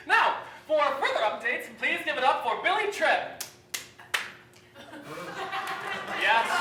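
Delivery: stadium announcer intro; announcer hype. Acted. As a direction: build up the big introduction. Announcer introducing Billy Tripp.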